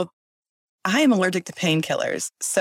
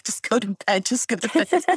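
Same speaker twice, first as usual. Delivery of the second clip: self-soothing; 3 semitones higher than usual. Retold or imitated. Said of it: "I was just like".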